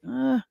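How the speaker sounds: dismissive grunt. Retold or imitated. His retold reaction to the complaint.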